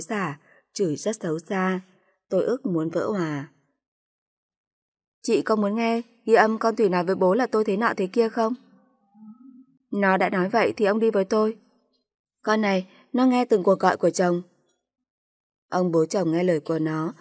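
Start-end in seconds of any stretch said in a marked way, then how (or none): 5.2-14.4 heated accusation. Acted. Wife and sister-in-law trade accusations about a recording, heated shouting. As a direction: throw the accusation back in her face.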